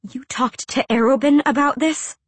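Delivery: high, sharp disbelieving question; angry hushed question. A narrator's reading. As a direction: bite it out under your breath. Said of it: "keep her voice to a whisper".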